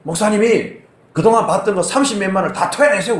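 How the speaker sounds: a touch of angry demand in the retelling; retold anger. Caller demanding back payment from the pastor, mild retold anger. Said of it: "막 화를 내면서".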